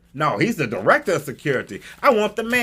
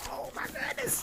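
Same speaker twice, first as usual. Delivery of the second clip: tiny, very high, breathless gasp of shock; squeaky dismay; 16 dB quieter than usual. Retold or imitated. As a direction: let it squeak out in disbelief. Dismay at receiving the letter.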